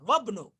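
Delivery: वब्नु joined, no इ; वब्नु with silent alif; linked pronunciation. Shown as a demonstration. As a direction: say वब्नु as one word. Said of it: "न कि वब".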